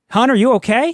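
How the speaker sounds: high yell, calling out over a distance. A player's character yells across at another character, yelling across. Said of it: "I would yell across at Denise".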